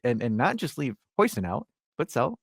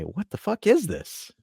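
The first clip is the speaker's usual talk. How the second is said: put-on higher, slow exasperated question in an American accent; 7 semitones higher, slower than usual. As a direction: ask it slowly in your own American accent. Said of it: "use your American accent".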